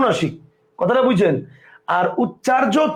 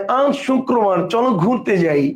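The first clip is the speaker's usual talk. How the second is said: every word through the nose, slower; Eva's nasal pronunciation; slower than usual. Retold or imitated. Teacher mimicking friend's invitation to an outing, slow nasal voice. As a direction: imitate someone nasalising the whole sentence. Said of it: "আর সব নাক দিয়া".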